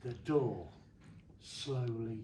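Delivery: low, soft, slow spooky storytelling; hushed suspense. Acted. Telling the kids a spooky story, low and hushed. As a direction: draw the crowd in with a hush.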